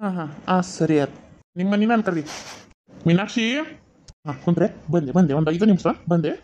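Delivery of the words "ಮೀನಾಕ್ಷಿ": calling out. Acted. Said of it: "ಒದರಿ ಒದರ್ತೀನಿ".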